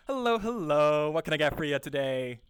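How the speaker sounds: lively sing-out greeting; cheerful, energetic. Shown as a demonstration. Cashier greeting a customer at the register, cheerful. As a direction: welcome them with easy pep. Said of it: "Cheerful, energetic".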